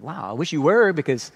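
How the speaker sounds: mild mock envy, tongue in cheek; sarcastic wish. Paul teasing the Corinthians about their kingdom, lightly sarcastic. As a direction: pretend to long to join them, lightly ironic. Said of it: "here's the sarcasm".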